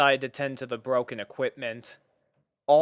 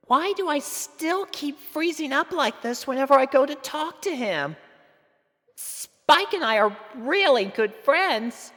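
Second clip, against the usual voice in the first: nervous Sweetie Belle; 4 dB louder than usual. Acted. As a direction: wonder aloud, flustered. Sweetie Belle's nervous inner thoughts.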